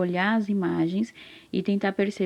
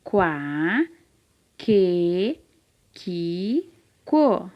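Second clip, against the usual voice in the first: syllable drill; much slower than usual. Shown as a demonstration. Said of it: "Vou repetir".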